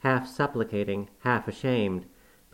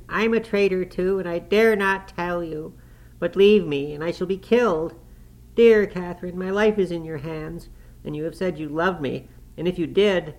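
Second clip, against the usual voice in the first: much higher and louder, desperate tearful begging; sobbing plea; 8 semitones higher, 5 dB louder than usual. A narrator's reading. Terrified boy begging Catherine to stay, sobbing. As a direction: beg her not to leave, in tears. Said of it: "he sobbed".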